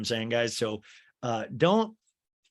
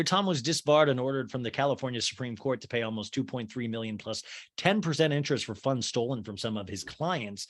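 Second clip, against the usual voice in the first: ordinary talk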